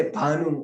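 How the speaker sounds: भानु with a brief final u; short final vowel. Shown as a demonstration. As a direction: end भानु on a single-beat u. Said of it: "तो छोटा ऊ रहा". (भानु के अंत में छोटा उ)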